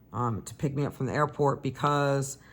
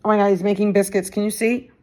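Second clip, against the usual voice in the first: excited; 5 semitones higher, 7 dB louder, faster than usual. Real, not acted. Delighted by the cat.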